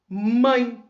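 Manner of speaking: "mãe" drawn out as one firm beat; one single syllable. Shown as a demonstration. Teacher showing a monosyllable, "mãe" in one stressed breath. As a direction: say "mãe" in one long, emphatic sound. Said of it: "uma vez só".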